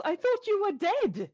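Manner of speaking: lightly acted cry of disbelief; mock yell. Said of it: "and she yells".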